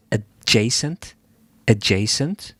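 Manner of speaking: "adjacent" sounded out as ad-JAY-sent, rising; unsure pronunciation. Real, not acted. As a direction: try "adjacent" with a long JAY and a questioning rise. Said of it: "Is that the right way to pronounce it?".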